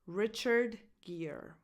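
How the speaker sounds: "Richard Gere" said slowly, name by name; careful, spaced-out "Richard Gere"; slow demonstration. Shown as a demonstration. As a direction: slowly model "Richard Gere", stressing the first syllable of "Richard". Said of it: "the stress goes on this first syllable".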